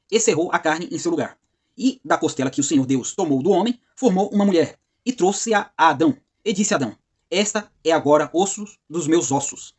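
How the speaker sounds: slow, measured Bible reading; formal, deliberate recitation of a verse; scripture reading. Acted. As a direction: read the passage phrase by phrase, with pauses. Reads scripture verse aloud.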